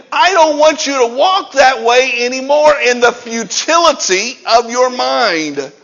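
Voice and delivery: loud, insistent quoted warning; emphatic admonition. Acted. Preacher voicing Paul warning Gentiles about their old ways, emphatic. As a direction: press the warning on them firmly.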